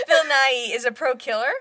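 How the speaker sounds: laughing through the correction; laughing at her own slip of "Bill Nye". Real, not acted. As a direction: giggle out "Bill Nye is a pro killer". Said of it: "He changed".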